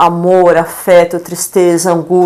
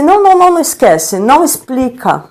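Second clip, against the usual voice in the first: eager interrupting; 3 semitones higher than usual. Retold or imitated. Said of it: "Aí eu falei assim".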